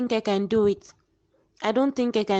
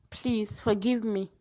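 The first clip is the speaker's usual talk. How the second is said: slow, softer pleading; weak plea; 5 dB quieter, slower than usual. Acted. Dying daughter begging her mother, slow and soft. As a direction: beg quietly, fading.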